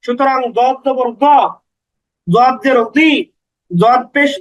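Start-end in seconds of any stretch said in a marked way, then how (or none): 0.6-1.2 final দ with a rounded o, not aa; দ said as "do", never "daa"; no aa vowel. Shown as a demonstration. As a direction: keep দ on an o sound despite the zabar. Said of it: "জবর হওয়া সত্ত্বেও আকার হয় না".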